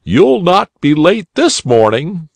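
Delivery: put-on a helpful bunny uncle inviting a lost boy; kindly old rabbit. A narrator's reading. Rabbit inviting the lost boy into his auto, cheerful and kindly.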